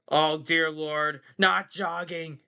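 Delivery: slow, dramatic diva groan; Miss Piggy voice. Retold or imitated. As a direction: sigh it like a diva. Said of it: "She was like".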